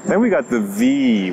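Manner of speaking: normal talking voice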